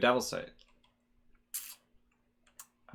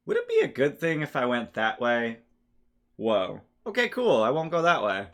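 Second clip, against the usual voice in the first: mock inner voice; 3 semitones higher, 5 dB louder than usual. Acted augury question and reaction.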